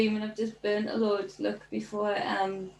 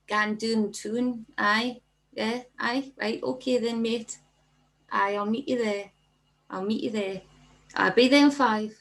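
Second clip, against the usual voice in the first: mimicking a broad Geordie local. Imitating locals passing in the street, broad Geordie. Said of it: "broad Geordie".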